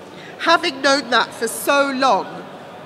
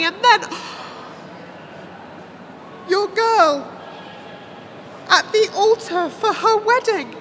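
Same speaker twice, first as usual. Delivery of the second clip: high, keening distress with a gasp; anguished pity; 8 semitones higher than usual. A narrator's reading. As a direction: lament it high, drawing out the words. Seer grieving over murdered daughter.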